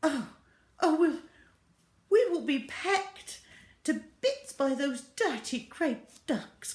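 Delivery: high, loud, slow frightened wail; fearful cry. Acted. Missus Gregg fears the ducks, high frightened wail. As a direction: dread the pecking ducks. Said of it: "cried Missus Gregg".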